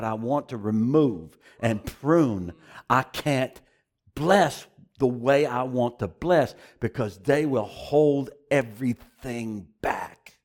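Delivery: slow, solemn prophetic voice; prophetic voice of God. Acted. Preacher voicing God's prophetic word, slow and solemn. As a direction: speak slowly as God's declaration.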